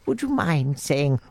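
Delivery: prim mock-monarch chat; the Queen. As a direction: make a polite royal request. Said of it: "the Queen continued".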